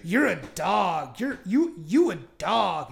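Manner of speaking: slow drawn-out mock accusation; mock scolding girls. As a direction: hang on each word like a taunt. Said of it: "all these white girls saying".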